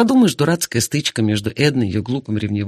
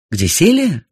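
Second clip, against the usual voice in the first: louder, higher repeated question; insistent repeat; 5 semitones higher, 4 dB louder, slower than usual. Acted. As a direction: demand it again firmly. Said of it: "повторила я".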